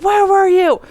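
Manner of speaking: retold worried father yelling; imitating dad yelling. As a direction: demand it, frantic and loud. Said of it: "almost yelling".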